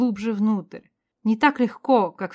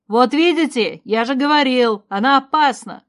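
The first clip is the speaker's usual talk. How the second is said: shouting; 4 semitones higher, 5 dB louder than usual. A narrator's reading. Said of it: "закричал мужчина".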